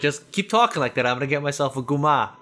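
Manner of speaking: mock Tony Soprano. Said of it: "talk like I'm fucking Tony Soprano".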